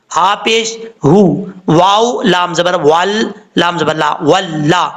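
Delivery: हु with a heavy throaty ह, slow and deliberate; spelling out letters. Shown as a demonstration. Teacher spelling the syllables slowly for students. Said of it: "ये हा भारी sound के साथ पढ़ा जाता है".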